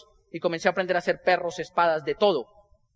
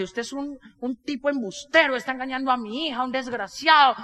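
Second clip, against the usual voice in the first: mock indignant mother; 4 semitones higher than usual. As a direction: act out an outraged mother scolding a swindler. Madre acusa al payaso de estafador. (madre indignada, imitada en tono agudo)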